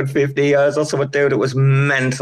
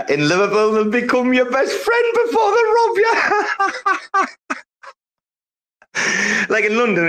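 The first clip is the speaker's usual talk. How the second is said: high, laughing shout on the joke; laughing punchline; 12 semitones higher than usual. Real, not acted. Telling friends Liverpool robbers befriend you first, laughing shout. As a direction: crack up as he lands the punchline.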